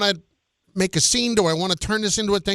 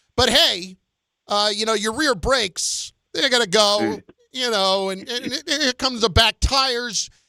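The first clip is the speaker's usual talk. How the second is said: ordinary talk, nothing marked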